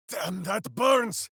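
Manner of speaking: slow shout of pain. Acted. Ranger yelling as something burns him. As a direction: yell it out as the burn hits.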